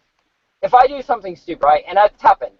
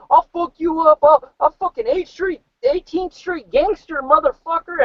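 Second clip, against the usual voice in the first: mock gangster threat; 8 semitones higher than usual.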